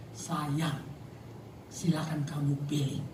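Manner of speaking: softly obliging; indulgent boyfriend. Acted. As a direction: play a boyfriend softly giving in. Boyfriend indulging girlfriend while dating.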